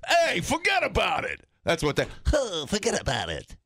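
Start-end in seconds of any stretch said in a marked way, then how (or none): 0.1-1.4 high, shouted mock-American holler; brash American catchphrase. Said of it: "what would their version of that be over here". 2.3-3.6 mock French accent on an American catchphrase. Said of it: "in a French accent".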